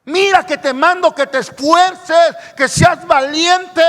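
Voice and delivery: loud, slow commanding voice; divine command. Acted. God commanding Joshua to be strong, loud proclamation. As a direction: order him to be brave.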